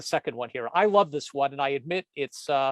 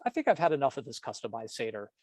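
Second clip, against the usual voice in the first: lower, softer and faster, an exasperated husband; fed-up grumble; 4 semitones lower, 4 dB quieter, faster than usual. Acted. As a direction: mutter it, worn out by the verses.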